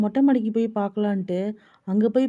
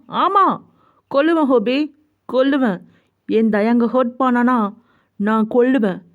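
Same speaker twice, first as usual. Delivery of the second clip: heated yes, settling into grim resolve; defiant vow; 3 dB louder than usual. Acted. Jungkook answering his friend's challenge, defiant and angry. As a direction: insist on it, pitch dropping with each repeat.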